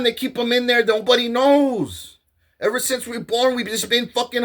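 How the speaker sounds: retold angry protest; heated protest. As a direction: protest indignantly.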